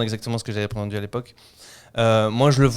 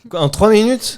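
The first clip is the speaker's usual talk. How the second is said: surprised; 9 semitones higher, 6 dB louder, slower than usual. Real, not acted. Reacting to three-minute claim.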